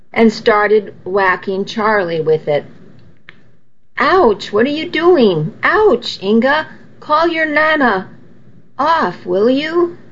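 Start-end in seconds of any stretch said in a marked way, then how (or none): 4.0-10.0 higher-pitched mock yelp of protest; pained protest. Man whacked by Nana's cane, yelping in protest. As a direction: protest in a hammed-up high yelp.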